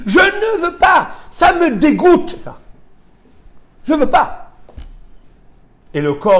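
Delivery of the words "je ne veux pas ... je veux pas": high, slow disgusted refusal; soul refusing in disgust. Acted. The soul tells the body it refuses, high, slow and disgusted. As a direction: pull away from the body's pleasures, high and slow. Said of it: "elle te dit".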